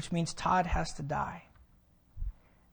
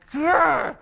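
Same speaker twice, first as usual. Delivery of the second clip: mock angry growl; 9 semitones higher, 9 dB louder than usual. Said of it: "she just was like".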